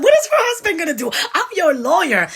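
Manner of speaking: quick, high words spilling out through laughter; laughing while quoting. Retold or imitated. Mocking the landlady's husband, quoting her friend while laughing hard. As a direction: giggle your way through it, amused. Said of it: "we started laughing".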